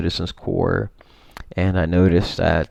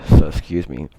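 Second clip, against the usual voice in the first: talking through hiccups; interrupted by a hiccup; 6 dB louder than usual. Real, not acted. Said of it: "I have the hiccups here".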